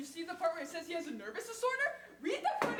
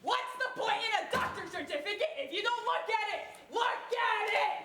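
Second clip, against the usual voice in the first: insistent shout; 4 dB louder than usual. Acted. Petitioner demanding the banker read the certificate, shouting. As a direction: drag out look at it.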